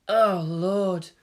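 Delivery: a mild, weary groan of Lord; exasperated groan, lightly voiced; understated tired groan. A narrator's reading. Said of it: "the girl groaned".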